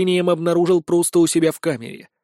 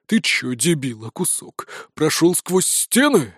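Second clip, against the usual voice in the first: gruff sheriff; slower than usual. Acted. Sheriff snarling at the prisoner through the bars. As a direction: lean in on every word, threatening.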